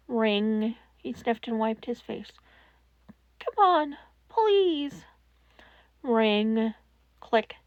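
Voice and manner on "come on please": begging. Acted. Izuku begging the phone to connect.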